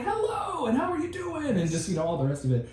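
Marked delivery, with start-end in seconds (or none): 0.0-1.5 high, sing-out cheery hello; imitating an upbeat, outgoing friend; happy, outgoing greeting. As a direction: greet like the nicest, happiest guy around. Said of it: "happy and outgoing".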